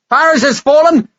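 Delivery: Paris has fallen! shouted high and loud, fallen held long; triumphant shout. Acted. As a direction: bellow "Paris has fallen!" to the whole tavern. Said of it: "shouted his news to the whole tavern".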